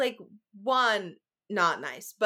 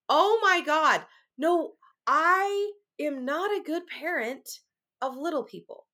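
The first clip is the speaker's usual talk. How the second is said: sudden realization; 3 semitones higher, slower than usual. Retold or imitated. Mother realizing she's no good with little people, sudden realization. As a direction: let the truth hit you mid-thought. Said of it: "all of a sudden it hits me".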